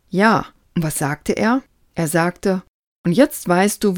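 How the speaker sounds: lively storytelling read of a book passage; animated book reading; reading aloud. Acted.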